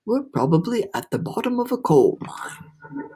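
mild storybook gloom; gloomy. A narrator's reading. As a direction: moan it like a pessimist. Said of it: "the earthworm said gloomily".

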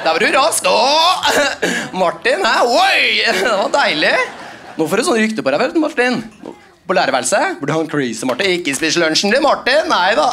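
mock gleeful colleague, high on the name; excited teacher. Teacher cheering Martin after the knee, excited. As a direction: hype him up with glee.

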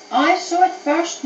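high, slow, raging neigh; a horse furious at the wasp; horse in a rage. A narrator's reading. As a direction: rear up and bellow it, slowly. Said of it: "neighed the horse in a rage".

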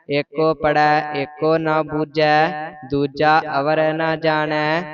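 measured, sing-song reading of scripture, line by line; Gurbani recitation. Real, not acted. Student reciting Gurbani to the teacher, measured and even. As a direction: recite each verse evenly with pauses between.

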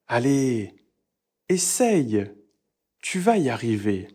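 a cheering essaye with upbeat Tu vas y arriver; encouraging. Shown as a demonstration. Teacher encouraging a student to try. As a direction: urge them on kindly. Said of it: "Un verbe à l'impératif".

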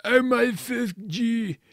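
high, loud, slow hammed-up scream; vampire screaming in pain, drawn out. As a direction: wail it in mock agony. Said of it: "He started to scream".

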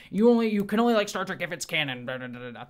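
mildly hammed-up gatekeeper, pushed then trailing into babble; mocking fan-police rant; mock canon purist. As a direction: imitate a fussy rule-enforcer, quick and emphatic. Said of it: "people who are like".

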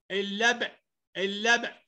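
اللبء with the ب bounced at the end; qalqalah bounce. Shown as a demonstration. Teacher showing qalqalah, bounced ب in اللبء. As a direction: release the ب in اللبء with a short echo. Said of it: "أقلقلها أقول إيه".

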